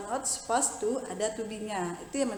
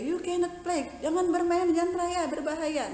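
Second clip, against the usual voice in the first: mock shout; 7 semitones higher, 3 dB louder than usual. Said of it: "biasa kan teman-teman teriak gitu ya".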